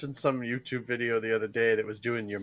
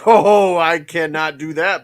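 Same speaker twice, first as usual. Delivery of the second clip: loud, hammed-up refusal; mock refusal; 4 semitones higher, 12 dB louder than usual. Co-host voices the driver refusing to return, mock refusal. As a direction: play an exaggerated, emphatic no.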